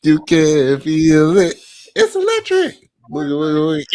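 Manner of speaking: imitating the dad dancing. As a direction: sell the electric slide like a proud dad. Dad doing the electric slide.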